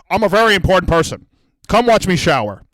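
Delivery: Harvey Weinstein. Retold or imitated. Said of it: "your table's Harvey Weinstein".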